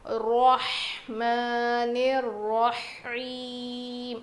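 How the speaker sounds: رحمن الرحیم with a thick ر and a throaty ح; رحمن الرحیم, make the ر full; heavy ra in recitation. Shown as a demonstration. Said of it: "یہ را کو موٹا پڑھیں گے".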